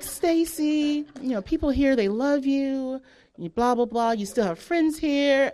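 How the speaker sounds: slow, soothing imitation of mom; lightly mocked counselor, stretched-out reassurance; counseling voice. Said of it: "goes into her counseling voice".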